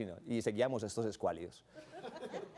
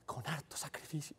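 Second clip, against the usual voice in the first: mock lament; 3 semitones higher, 9 dB quieter than usual. Imagines his mother lamenting.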